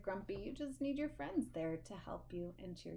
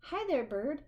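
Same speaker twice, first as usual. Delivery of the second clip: cheery rabbit; 6 semitones higher, 6 dB louder than usual. Acted. Rabbit voiced in story.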